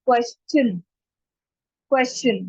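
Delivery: "question" as KWES-chun; correct pronunciation. Shown as a demonstration. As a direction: say "question" with a clear CH in the last syllable. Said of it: "चन का sound आएगा". ("question" के अंत में चन)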